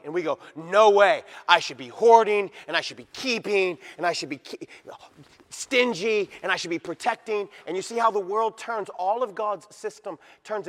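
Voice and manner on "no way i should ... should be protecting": loud stubborn refusal; mock protest. Believers voiced refusing God about money, loudly. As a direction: push back hard, clinging to money.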